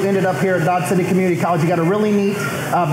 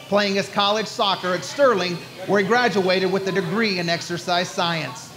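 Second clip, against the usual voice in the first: scripted sports-show introduction read; show host intro; 5 dB quieter than usual. Real, not acted. Host introducing the soccer coach to viewers, announcer-style intro.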